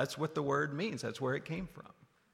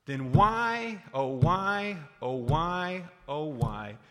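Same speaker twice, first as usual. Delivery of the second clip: rising lament; 5 dB louder, slower than usual. Acted. Preacher lamenting to the congregation, loud then easing. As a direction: plead at the churches.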